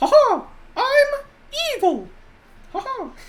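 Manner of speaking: high squeak, slow and swooping. Trying out a cartoonish evil character, in a Mickey Mouse voice. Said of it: "I'm evil in the Mickey Mouse voice".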